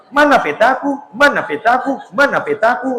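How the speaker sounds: high, playful cartoon girl asking for her map; preacher doing a cartoon Dora voice; Dora impression. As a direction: mimic the little explorer, sing-song. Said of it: "Dora and the Explorer niku".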